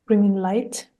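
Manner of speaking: calm, even meditation guidance with long pauses; guided meditation. Acted. Guide talking listeners through clearing their energy, calm guided meditation. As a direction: guide gently, leaving long silences between phrases.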